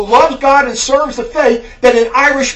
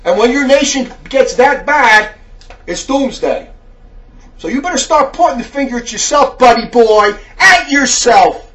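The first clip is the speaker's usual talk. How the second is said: fiery preaching; 5 dB louder than usual. Real, not acted. Preaches in angry rebuke.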